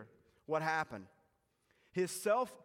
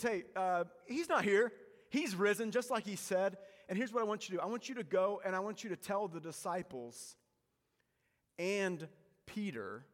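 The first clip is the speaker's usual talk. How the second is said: louder, higher joyful announcement; excited angel; 4 semitones higher, 4 dB louder than usual. Retold or imitated. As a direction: burst out with the good news.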